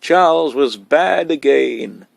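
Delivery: excited news. A narrator's reading. Boy excitedly bursting with news.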